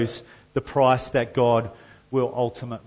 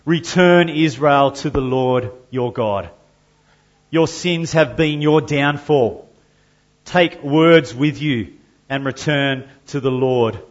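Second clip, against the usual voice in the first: prophet's call; 5 dB louder than usual. Acted. Reads the prophet's call aloud.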